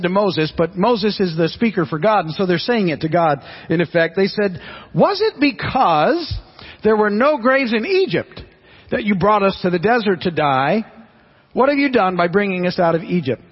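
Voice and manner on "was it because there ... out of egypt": sarcastic complaint, dragged out; really sarcastic. Retold or imitated. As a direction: sneer it back at Moses. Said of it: "Now that's a really sarcastic".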